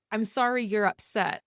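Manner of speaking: sorry falling, dismissive; mock a hollow apology; fake apology. Mimicking a hurtful partner's apology, dismissive. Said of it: "fake apologies".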